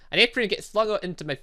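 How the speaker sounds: usual speaking voice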